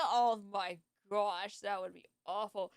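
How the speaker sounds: talking through a yawn. Real, not acted. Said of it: "I can't stop yawning".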